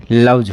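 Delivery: लव्स said as "lavj"; voiced j ending. Shown as a demonstration. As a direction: end लव्स on a buzzed j. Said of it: "जे उच्चारण होगा".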